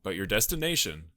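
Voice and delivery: measured, mock-ominous scene setting; suspenseful story narration. Podcaster painting a rainy road-trip picture for colleagues, mock-suspense narration. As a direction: narrate a spooky tale in deliberate phrases with pauses.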